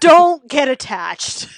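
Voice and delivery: loud, slow laughing warning; laughing shout. Real, not acted. Warning friends about the doomed character, laughing shout. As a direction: bellow it through laughter.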